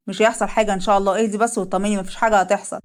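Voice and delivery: calm her down gently; reassuring husband. Acted. Leil calms his wife.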